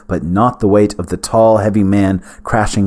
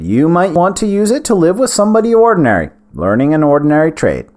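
put-on old wizard voice; 6 semitones higher, faster than usual. Smallbone offers freedom.

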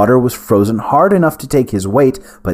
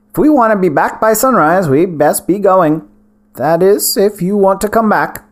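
put-on old wizard voice; 9 semitones higher than usual. Smallbone voiced, higher.

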